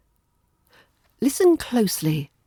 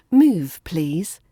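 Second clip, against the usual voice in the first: polite-ish; 5 dB louder than usual. Shown as a demonstration. English teacher softening a command for learners, polite-ish. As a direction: soften the order with a lifted please. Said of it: "it's more polite-ish".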